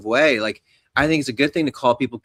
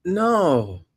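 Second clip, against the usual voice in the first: high, slow disbelieving drawl; high and slow, mock disbelief; incredulous no; 6 semitones higher, much slower than usual. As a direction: act baffled that someone so smart believes this. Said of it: "And I was just like".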